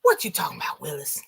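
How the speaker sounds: quoting the catchphrase. Retold or imitated. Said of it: "which show featured the phrase".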